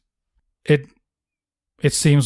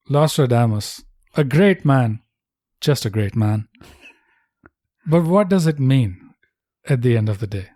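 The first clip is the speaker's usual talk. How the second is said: solemn tribute voice. Acted. Slow mystical tribute voice.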